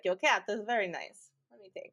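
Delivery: lightly imitated Russian accent; a hint of a Russian accent, hammed-up. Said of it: "how I feel about accents".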